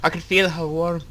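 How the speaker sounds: lightly voiced, careful tribute to someone lost; slightly put-on character voice, restrained; Rosa, earnest remembrance. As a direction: recall her in measured, even phrases. Plays Rosa remembering her family.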